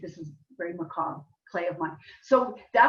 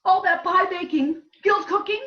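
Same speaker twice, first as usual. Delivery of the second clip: acting out both women, raised and lively; dramatic scene reading; 4 semitones higher than usual. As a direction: play the two friends confessing a murder. Playwright reads her scene aloud.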